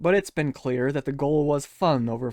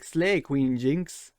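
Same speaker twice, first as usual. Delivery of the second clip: deadpan sarcastic cheer; mock fan praise; 4 semitones higher than usual. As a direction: lay on fake worship. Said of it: "he's just like".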